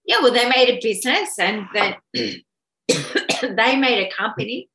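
hoarse, losing her voice. Real, not acted. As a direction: talk through a voice that's going. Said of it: "Sorry, I'm losing my voice now".

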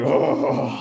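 loud, airy "oh"; hammed-up gasp of dismay; exasperated gasp. Traveller told to pay extra, exasperated gasp. Groan at being refused.

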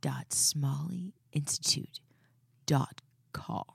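slow, low, whispered web address; sexy whisper. Pretend. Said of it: "I'll try it".

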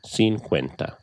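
slow and clear, teacher modelling; slow model pronunciation. Shown as a demonstration. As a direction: say each syllable slowly for the learner.

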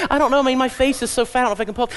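fishing for compliments. Acted. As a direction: play a woman fishing for praise. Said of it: "She goes".

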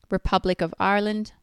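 slight accidental Irish accent. Real, not acted. Listing recognized countries for viewers, slipping into an Irish accent. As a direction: let an Irish lilt slip in on the country name. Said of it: "I said that with an Irish accent".

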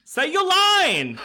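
high, drawn-out Scouse demand; Scouse accent. Acted. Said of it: "when you do your Scouse accent".

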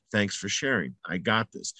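soft, low, settled; calm dismissal repeated. Shown as a demonstration. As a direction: say it again quietly, like a mantra. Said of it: "those are the most important words".

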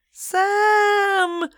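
long, high holler; high drawn-out cry of alarm; yelled name. A narrator's reading. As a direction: yell the name out on one held high note. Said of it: "she yelled".

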